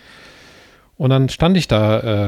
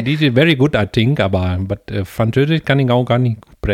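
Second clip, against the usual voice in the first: mock Indian accent. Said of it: "mit indischem Akzent klingen".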